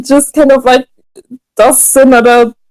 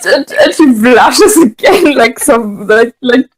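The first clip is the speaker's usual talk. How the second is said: laughing. Real, not acted. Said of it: "laugh cry".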